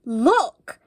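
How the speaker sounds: loud excited call; shout. Acted. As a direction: shout to point at the tree. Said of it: "they all shouted".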